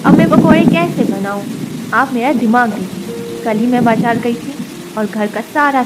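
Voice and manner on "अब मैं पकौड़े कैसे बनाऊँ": higher, louder fretful question; worried daughter-in-law stuck in the kitchen; daughter-in-law to mother-in-law, higher and louder in dismay. Acted. Daughter-in-law finds no gram flour.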